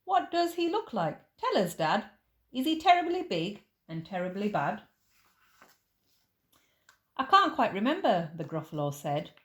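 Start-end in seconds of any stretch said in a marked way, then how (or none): 0.0-4.8 lightly voiced eager child; a kid tugging at dad's sleeve; a hint of a wide-eyed little one; curious child. Child asks dad about mouse. 7.2-8.3 louder, higher fumbling dad; a touch of a flustered father; hedging dad. Acted.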